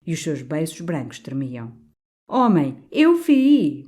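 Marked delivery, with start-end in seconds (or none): 2.3-3.8 bellowed, much higher and louder. A narrator's reading. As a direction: roar it out at him. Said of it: "berrou o cônego". (berro furioso, muito alto)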